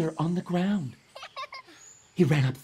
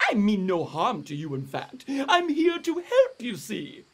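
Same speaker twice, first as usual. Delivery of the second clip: a hint of a higher, kindly bat; lightly voiced friendly flying fox; 6 semitones higher than usual. Flying fox calms the scared Ai Ai, kindly. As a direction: reassure him gently.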